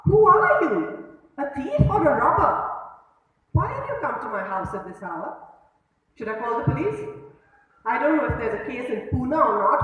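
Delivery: loud, high furious rant, peaking on Who are you; biting tone. Acted. Saugandhi rages at Madhav, loud and high, driving him out. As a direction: spit every insult at him. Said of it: "responded in a biting tone".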